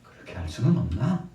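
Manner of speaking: acted, questioning reproach; pleading reproach. Jesus reproaching disciples for wavering, pleading. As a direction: press the question like a disappointed master. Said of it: "예수님께서 책망을 하신".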